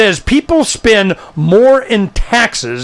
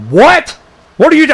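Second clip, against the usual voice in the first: shocked what; 9 semitones higher than usual. Retold or imitated. Communists shocked at libertarian claim.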